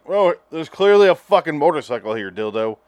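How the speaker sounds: loud, mock-exasperated pointing out; exasperated horse. Horse showing him the hidden motorcycle, mock-exasperated. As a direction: play the horse fed up with him.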